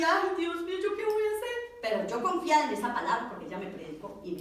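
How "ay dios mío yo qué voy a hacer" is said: high-pitched imitated crying plea; tearful wail. Lost woman cries out to God in the metro, tearful wail. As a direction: wail it as if in tears. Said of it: "cuando yo estaba llorando".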